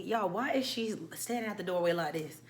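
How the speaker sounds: whispered aside to the audience. Real, not acted. Telling viewers about the friend, in a whisper. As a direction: drop to a secret whisper.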